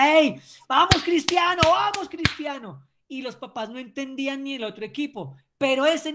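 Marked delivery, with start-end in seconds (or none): 0.1-2.8 put-on rally a downcast kid with his nickname; retold cheer. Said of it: "les decía".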